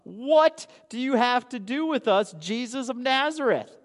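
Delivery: preacher lightly voicing the possessed man crying out; demon crying out. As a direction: call out like a startled demon, lightly voiced. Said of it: "and he cried out".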